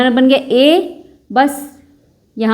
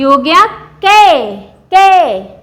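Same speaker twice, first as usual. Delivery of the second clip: emphatic teacher; 3 semitones higher, 4 dB louder, much slower than usual. Shown as a demonstration. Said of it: "teacher stresses the new sound".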